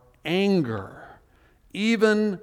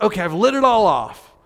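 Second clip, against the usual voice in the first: relieved psalmist. Retold or imitated. Psalmist after venting, mock relieved prayer. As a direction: exhale and settle into trust. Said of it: "you would expect, I think, like".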